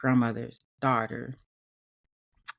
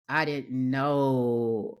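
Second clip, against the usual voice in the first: slow, tearful catch in the voice; holding back real tears, drawn out; choking up; much slower than usual. Real, not acted. Telling how grandma understood, choked up and slow. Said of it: "I got emotional".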